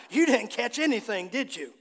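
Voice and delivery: imitated sarcastic tone, tag question dropping; mildly needling question with a falling "did you?"; lightly mocking, as if rubbing it in. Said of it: "I don't think he said it sarcastically".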